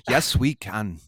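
restrained political slogan in mock Scottish; Obama. Shown as a demonstration. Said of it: "It's my best Scottish Obama".

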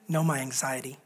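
hushed prayer. Acted. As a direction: pray it low like a confession. Quiet intimate prayer.

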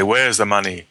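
mock greedy demand, stretched out; show me the money. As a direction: ham up the greedy catchphrase. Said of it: "I say".

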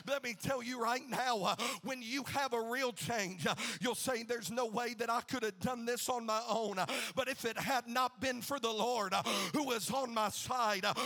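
full-force preaching in driving phrases. Real, not acted. Preacher recounts Saul's conversion to the congregation, impassioned preaching. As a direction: punch each phrase, gasping "uh" between.

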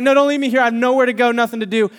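mock desperate plea to friends heading out; pleading. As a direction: beg them not to go. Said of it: "I pleaded".

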